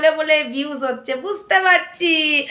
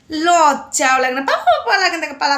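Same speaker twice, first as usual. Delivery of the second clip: scornful laugh; 3 dB louder than usual. Real, not acted.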